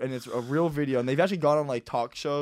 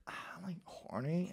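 1 casual; 3 semitones higher, 14 dB quieter than usual. Retold or imitated. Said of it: "Like, very casual".

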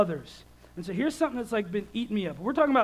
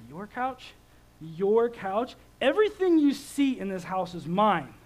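angry dad; 4 dB louder than usual. Retold or imitated. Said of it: "I lit up".

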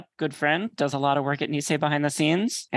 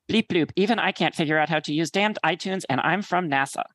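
astronaut voice; 2 semitones higher than usual. Retold or imitated. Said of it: "in perfect astronaut voice".

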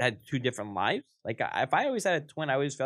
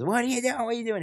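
higher, alarmed mock examiner; retold panic; 9 semitones higher, faster than usual. Examiner panicking as the student runs the stop sign, alarmed. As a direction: squeal it in a panic. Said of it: "she goes".

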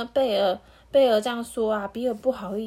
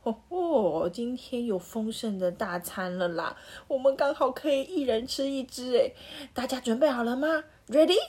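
higher, eager rallying call; excited wolf; 4 semitones higher than usual. Acted. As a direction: pump up the pack before the hunt. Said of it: "很兴奋地说".

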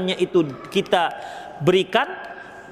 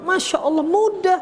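joking answer; 8 semitones higher than usual. Real, not acted.

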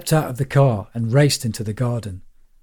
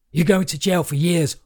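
manic rant; 6 semitones higher than usual. A narrator's reading. Maniac in the pond scolding children in a high, frantic pitch. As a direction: preach doom at them in a raised, wild pitch. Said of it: "a half-naked maniac shouting at children".

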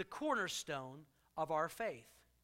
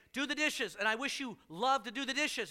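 imitating wife; 5 semitones higher than usual. Wife voiced in joke.

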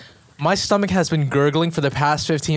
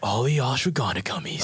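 smooth ad read; commercial voiceover; 3 semitones lower, 4 dB quieter than usual. Shown as a demonstration. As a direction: sell it like a TV commercial. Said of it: "how you would hear it in a commercial".

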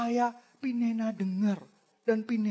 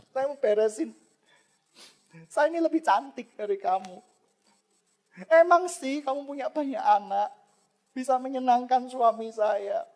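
Hana confronting rival. Retold or imitated. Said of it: "Hana berusaha membereskan dengan madunya".

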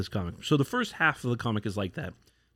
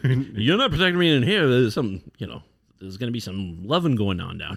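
mock lordly dismissal; 3 dB louder than usual. Lord sending his retainer away from the bedroom, mock haughty. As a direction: shoo the bodyguard out with a wink. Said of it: "the Lord's like".

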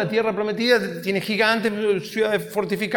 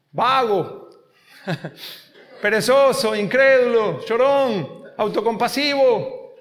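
scolding list; slower than usual. Acted. Scolding the congregation.

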